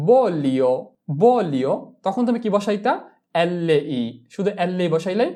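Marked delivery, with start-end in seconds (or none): 0.1-1.7 "বলিও" with a short single L, louder first syllable. Shown as a demonstration. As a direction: say "বলিও" without holding the L. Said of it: "আর যদি আমি বলতাম যে".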